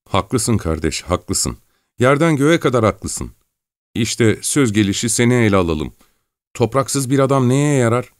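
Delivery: put-on a homesick farm boy pouring his heart out; Gavrila fervently agreeing.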